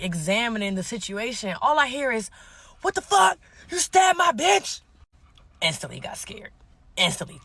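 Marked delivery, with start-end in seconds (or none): 2.8-4.8 outraged shout. Retold or imitated. Man confronting the woman who stabbed his girl, outraged shout. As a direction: yell it in shocked outrage. Retelling an onlooker's outraged outburst.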